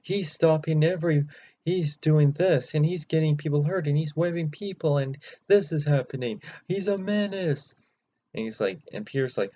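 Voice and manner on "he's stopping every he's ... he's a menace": high, loud blustering anchor rant; Jameson news rant. Retold or imitated. Jameson ranting on the news about Spider-Man, high loud bluster. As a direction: rant like an outraged newsman. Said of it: "it's Jameson on the news report saying".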